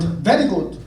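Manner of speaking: mock Icelandic accent; playing a local with a fake Icelandic accent. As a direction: put on a bad Icelandic accent. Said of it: "in my best fake I-, Icelandic accent".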